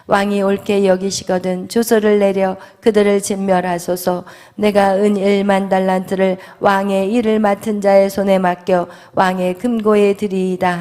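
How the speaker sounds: loud, even-pitched Bible reading; formal, projected recitation; scripture reading. A narrator's reading. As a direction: read the verses out firmly in a steady monotone. Reads scripture aloud.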